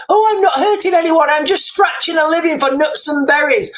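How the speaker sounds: lightly put-on voice of a precious refuser; mock objector. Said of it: "and say".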